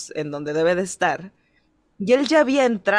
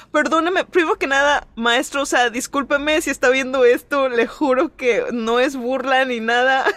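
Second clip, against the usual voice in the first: mock apology; 3 semitones higher than usual. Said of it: "todos los alumnos decían así como".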